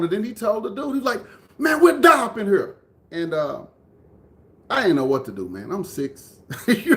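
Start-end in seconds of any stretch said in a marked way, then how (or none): 1.6-2.8 high, loud mock outburst; imitated brother's heated refusal; retold defiance. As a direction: act out a kid standing up to a man. Retold brother defying the man.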